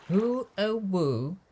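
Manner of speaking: storybook character's amazed question; wondering question. A narrator's reading. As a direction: ask it high and wide-eyed. Drip wonders at his reflection.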